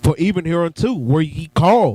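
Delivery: "called" stressed.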